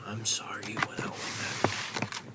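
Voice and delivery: slow, altered character voice; Negan impression voice. Fan quoting Negan to his bat, slow in-character voice. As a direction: draw it out slowly, in character. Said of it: "I feel like Negan talking about".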